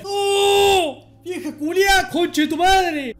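scared shout. Real, not acted. Scared by the ghost woman.

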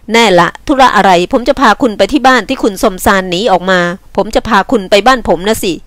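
lightly voiced impatient man; brusque man. Man offers his own house to a runaway, brusquely. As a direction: put her right, mildly brusque.

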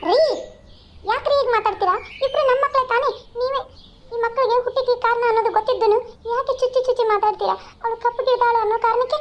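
a mother defending her daughter against her husband; a hint of an angry mother; upset mother. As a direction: confront him, hurt and indignant.

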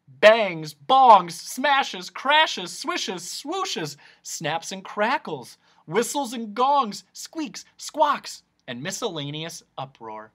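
high, animated roll-call of noises; noisy, punchy list. A narrator's reading. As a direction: punch out each noise word with relish. Listing noisy bottle labels with relish.

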